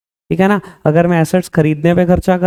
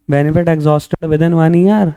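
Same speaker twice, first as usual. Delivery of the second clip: very slow, word by word; slow dictation; much slower than usual. Shown as a demonstration. Teacher repeating the definition slowly for the class. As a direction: drag each word out for notes.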